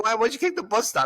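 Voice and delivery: mock bewildered question; incredulous. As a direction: ask in disbelief.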